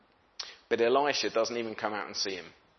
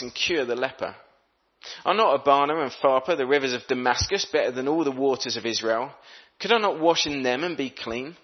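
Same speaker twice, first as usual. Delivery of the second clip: scripture reading. Acted. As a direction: read the verse out to the congregation.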